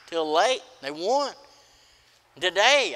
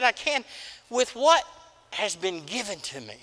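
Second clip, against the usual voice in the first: imagined plea to the Lord; 4 semitones higher than usual. Retold or imitated. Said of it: "I wanna say".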